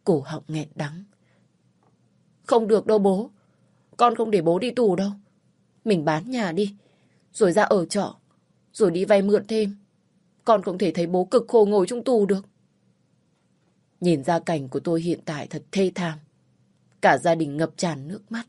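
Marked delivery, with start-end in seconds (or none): 2.4-12.5 high, loud begging, close to tears; desperate pleading. Acted. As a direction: refuse to let him go to prison. Daughter begs father not to go. (con gái van xin bố, giọng cao và to)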